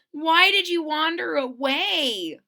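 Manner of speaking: a gentle telling-off; Lisa's voice. Acted. Lisa scolding Corduroy on the way home, mildly.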